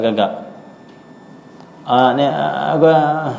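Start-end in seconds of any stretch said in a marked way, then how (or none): 1.9-3.4 halting imitated stammer with hesitation sounds; mild stutter. Teacher imitating a friend who stutters. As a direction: stumble over the words like a stutterer. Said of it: "macam gagap sikit".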